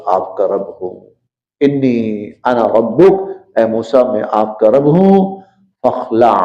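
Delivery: ordinary talk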